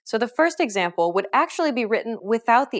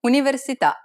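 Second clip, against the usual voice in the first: "Università" stressed on the final "tà"; last syllable stressed; 3 semitones higher, 3 dB louder, faster than usual. Shown as a demonstration. Teacher revealing a quiz answer, last syllable stressed. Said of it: "the answer is the last syllable".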